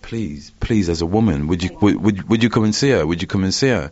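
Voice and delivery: urgent, repeated plea, rising in pitch; imitated begging. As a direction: beg as he did, stumbling over the request. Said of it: "he begged me".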